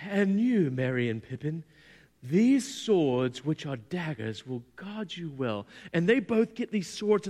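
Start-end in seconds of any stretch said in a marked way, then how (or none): 0.1-5.7 lightly voiced elf queen, measured and ceremonious; slowing down as the gifts are solemnly bestowed; Galadriel. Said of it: "she's like".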